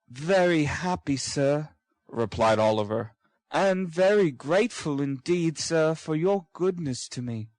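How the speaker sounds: earnest and polite; grateful boy. Acted. Oliver thanks the old gentleman, lightly voiced boy.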